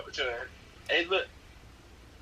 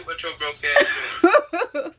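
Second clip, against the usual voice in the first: slow, slurred mock denture voice; loose dentures; 6 dB louder, slower than usual. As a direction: drawl it like teeth are loose. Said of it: "I'ma get them teeth".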